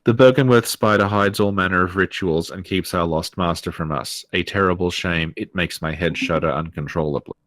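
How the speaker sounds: dry, mocking read of the note; sarcastic reading. Shown as a demonstration. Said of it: "Why did you read it so sarcastically?".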